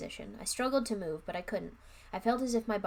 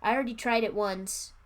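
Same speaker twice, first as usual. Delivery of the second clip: loud, offhand mock excuses; mocking the wizard; 6 dB louder than usual. Reader mocking the wizard who abandons the kids, loud and scornful. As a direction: sneer through his lame excuses. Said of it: "he's like".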